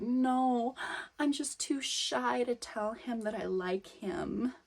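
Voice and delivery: soft, shy and slow; bashful murmur, barely daring; coy shy voice. Acted. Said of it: "coy, shy little".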